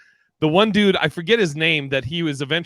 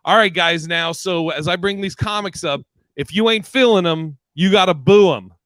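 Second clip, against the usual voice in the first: host addressing crowd; 4 semitones higher, 5 dB louder than usual. Retold or imitated. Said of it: "then he says".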